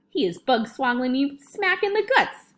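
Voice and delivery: outraged shout. A narrator's reading. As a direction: shout as if kicked awake. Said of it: "shouted the Gizzard Gulper".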